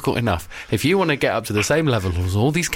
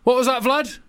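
raised-pitch president on the phone; Obama; 9 semitones higher than usual. Acted. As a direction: query a bad line in a lightly acted, higher voice. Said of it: "And I'm playing Obama".

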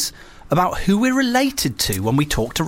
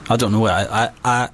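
lower-pitched, hesitant Scottish accent; 4 semitones lower than usual. Shown as a demonstration. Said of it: "I can do a reasonable Scottish accent".

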